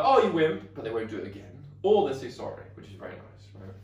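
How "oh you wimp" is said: mock taunt. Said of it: "they might just be like".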